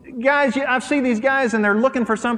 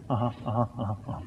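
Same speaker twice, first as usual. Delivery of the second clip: soft, distracted uh-huh, much lower and quieter; dismissive uh-huh; 9 semitones lower, 11 dB quieter, much faster than usual. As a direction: mumble uh-huh like a husband not listening. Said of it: "he'd do like this".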